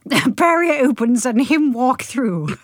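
slow reread. Shown as a demonstration. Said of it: "riddled with typos".

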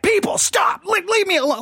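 high, exasperated plea at interrupting callers; irritated outburst. Retold or imitated. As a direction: re-enact fed-up yelling, pitched high. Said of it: "I'm so irritated".

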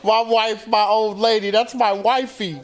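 a playful Baltimore voice for the guy proud of saying wifey; hammed-up Baltimore accent. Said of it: "'Cause he's from Baltimore".

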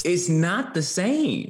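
slow, high amused voice; slow, high chuckling remark; amused aside. Real, not acted. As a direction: let the laugh stretch the words.

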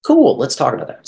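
reward the answer happily; bright approval. Real, not acted. Welcoming a real feeling.

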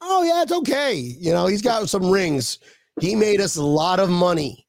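high, sarcastic dismissive tone; mocking voice. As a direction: brush it off mockingly, high pitch. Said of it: "swept under the rug".

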